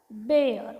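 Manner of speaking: बेअर with "ay" gliding into "uh-r"; pronunciation demo. Shown as a demonstration. Teacher models बेअर for learners, clear pronunciation demo. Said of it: "काय झाला मग याचा उच्चार?".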